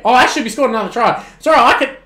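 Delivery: real relieved hype; excited. Real, not acted. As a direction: rattle it out as the try lands. His team scores a try.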